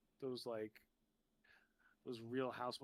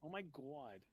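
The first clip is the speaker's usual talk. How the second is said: a hint of mob-wife New York drawl on "God"; mock New York accent; 2 semitones higher, 4 dB quieter, slower than usual. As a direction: lightly imitate a Real Housewives accent. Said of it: "they talk like all the people".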